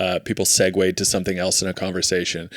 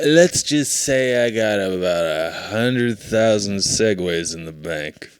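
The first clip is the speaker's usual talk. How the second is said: mock drunk brag; slower than usual. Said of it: "And he goes, he says".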